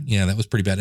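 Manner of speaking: ordinary talk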